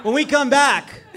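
playful drawn-out tease; teasing. Acted. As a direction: laugh through the tease. Host teasing segment break.

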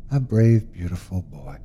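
lovingly soft, trailing to almost nothing; tender, fading. Acted. Mother stroking her son's forehead, tender and fading. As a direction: lull him to sleep with praise.

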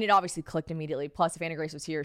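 normal talking voice

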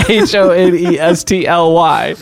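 slow, laughing letter-by-letter spelling; spelling words in front of kids. Pretend. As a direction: spell it out slowly while laughing. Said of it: "I'll have to spell it".

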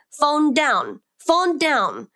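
put-on high, childlike demand; toddler voice. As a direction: imitate a two-year-old asking for attention. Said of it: "little two-year-old voice".

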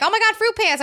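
high-pitched mock gasp of amazement; exaggerated, high-pitched disbelief. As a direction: act out being astonished at the sight. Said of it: "Like, I wasn't like".

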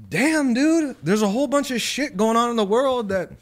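a mock stunned realization, dude; retold inner reaction. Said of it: "And I'm like".

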